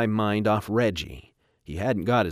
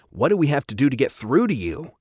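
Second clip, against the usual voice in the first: higher, louder exasperated demand; exasperated scolding; 5 semitones higher, 5 dB louder than usual. Acted. Don trying to get through to his son, exasperated. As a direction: scold as if at wit's end.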